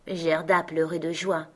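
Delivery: plain reading voice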